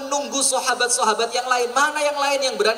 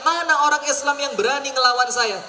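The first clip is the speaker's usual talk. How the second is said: raised-pitch challenge, only mildly shouted; retold challenge shout; 6 semitones higher than usual. Enemy warrior challenges the Muslims to fight, mild retold shout. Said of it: "kembali teriak".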